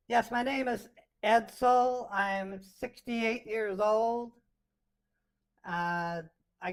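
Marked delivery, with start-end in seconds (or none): 0.1-4.3 put-on old grandma filter. Shown as a demonstration. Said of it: "here comes old grandma".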